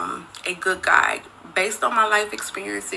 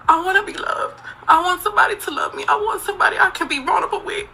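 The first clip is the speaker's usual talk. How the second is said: tearful, high pleading words; pleading through real tears; crying; 10 semitones higher, faster than usual. Real, not acted. Woman on camera confessing, pleading through tears.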